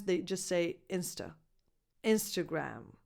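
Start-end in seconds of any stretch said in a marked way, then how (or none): 2.0-2.9 "Instagram" lower, "gram" with the cat vowel; defined last vowel. Shown as a demonstration. Teacher completing the word, "Instagram" with clear last vowel. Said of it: "The last vowel is defined".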